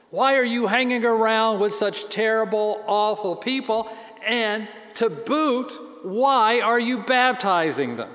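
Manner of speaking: mock outrage at the outsiders; indignant protest. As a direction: protest like outraged early believers. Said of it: "hit the roof".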